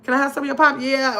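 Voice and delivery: light imitation of a New Orleans cousin, each line ending on a tagged yeah; a hint of the New Orleans cousins' way of talking, casual and teasing; mock New Orleans cousin talk. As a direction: lightly play your New Orleans cousin asking for pop. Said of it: "that's how they talk".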